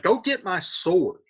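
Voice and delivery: heated modern retelling of Tybalt, pitch climbing; a furious nephew in plain words; angry Tybalt paraphrased. Retold or imitated. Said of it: "he's like".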